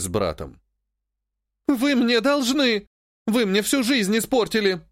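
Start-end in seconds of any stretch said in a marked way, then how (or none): 1.7-4.8 high, slow tearful accusation; a touch of whimpering hurt; sobbing. A narrator's reading. Sister accusing her family, mildly sobbing. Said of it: "всхлипывала она".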